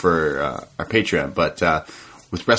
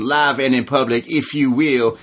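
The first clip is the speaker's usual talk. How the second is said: Dusty impression; 4 semitones higher than usual. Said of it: "he does a Dusty impression".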